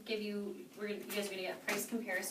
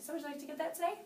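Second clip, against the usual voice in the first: confident ask; 7 semitones higher, faster than usual. Shown as a demonstration. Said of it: "being confident".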